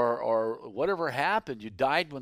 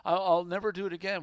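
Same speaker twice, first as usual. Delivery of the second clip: pleading prisoner; 6 semitones higher, faster than usual. Retold or imitated. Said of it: "they cry out".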